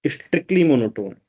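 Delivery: very slow, word by word as if writing; slow dictation. Shown as a demonstration. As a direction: spell it out slowly for the notes. Dictating while writing on board.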